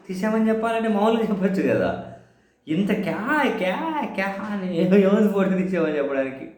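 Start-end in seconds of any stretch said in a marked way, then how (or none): 2.7-4.3 mimicking shouted kya kya, jumping high; mock shouting noise. Mocking the MLAs yelling at the CEO, imitated shrill squawk. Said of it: "ఇంత ఎందుకు అరుస్తున్నారు".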